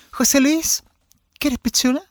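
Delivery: put-on high-pitched, affected older lady; friendly old boss. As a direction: offer it sweetly in a high voice. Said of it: "hablaba como así". (voz aguda de vieja ciútica)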